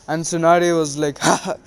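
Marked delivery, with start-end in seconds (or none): 1.2-1.5 short acted laugh; mock cocky "ha ha"; scornful laugh. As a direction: toss off a brief put-on laugh. Tsunade scoffs at the bet.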